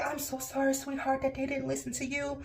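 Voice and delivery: high, softened consoling voice; soft retold apology after an outburst; imitated sympathy. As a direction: play a tech comforting a crying patient. Tech consoles crying patient, retold.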